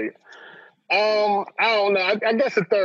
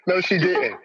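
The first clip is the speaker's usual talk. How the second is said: laughing mock disbelief; slower than usual. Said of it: "I was like".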